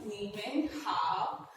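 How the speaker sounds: ni men hao said slowly; slow, careful ni men hao; greeting the class with a slow ni men hao; Chinese greeting. Shown as a demonstration. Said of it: "hello everyone".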